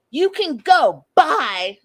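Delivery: put-on high, loud childish snap. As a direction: toss it off like a sulky kid. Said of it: "like a child".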